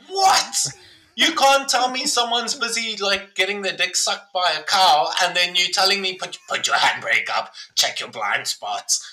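high, stunned what then a rant; incredulous outburst. Retold or imitated. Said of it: "you're like".

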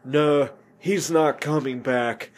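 slow, lightly acted movie-hero quote; measured mock film delivery; Johnny Utah. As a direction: draw the line out, a hint of impersonation. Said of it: "Johnny Utah's like".

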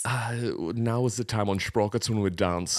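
put-on Sprockets-style German accent with v for w; mock German talk-show host accent. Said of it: "You spoke in a German accent".

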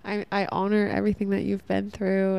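lightly voiced cheerleader tone, slowing on amazing; self-encouraging letter. Podcaster quoting her letter to herself, gently encouraging. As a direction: read her own self-love letter with gentle pride. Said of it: "I'm like".

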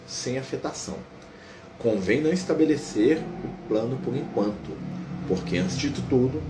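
slow, calm book narration; story narration. A narrator's reading. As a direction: narrate the scene gently and evenly. Reads Aniceto's reply.

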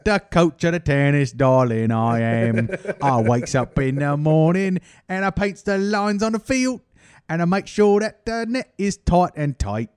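lightly voiced pompous tennis coach; a hint of a grand foreign coach; mock coach. Parody of female tennis coach.

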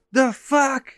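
high, loud startled dog; a dog voicing surprise; mock dog voice. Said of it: "he's like".

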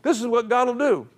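can't stop laughing but keep going; laughing while preaching. Real, not acted. Preacher cracking up at own story.

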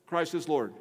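ordinary delivery

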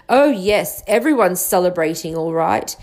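a touch of brisk impatience, lightly voiced; mildly fed-up, hurrying the words along; impatient. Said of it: "she said impatiently".

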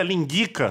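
"linguica" with a hard k in place of the s; read without cedilla. Shown as a demonstration. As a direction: say "linguica" ending in -ka. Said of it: "tiraria o C cedilha".

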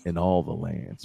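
deep sultry intro, slowed way down; breathy vintage purr. Acted. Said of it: "I gotta get deep into the microphone".

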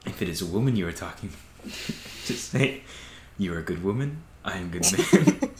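put-on laughing, accented landlord advice; a hint of his Eastern European accent; Ditkovich accent. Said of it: "He's like".

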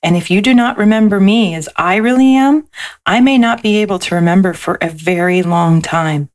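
gentle storybook read-aloud; lilting picture-book narration; reading to children. A narrator's reading.

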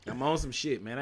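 cracking, strained voice. Real, not acted. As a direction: let the voice crack. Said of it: "My voice is cracking already".

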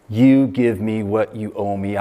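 slow, deliberate acted demand; unforgiving demand. You look at the person next to God, slow unforgiving demand. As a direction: press each word at the debtor, mildly acted.

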